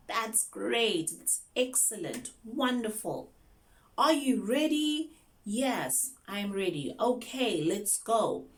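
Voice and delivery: high, enthusiastic classroom voice; excited teacher. Shown as a demonstration. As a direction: cheer a young learner on into the lesson. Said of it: "you need to sound excited".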